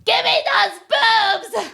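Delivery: put-on high, loud, slow greedy baby voice; high squeaky baby yell; baby's demand. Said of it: "she's like".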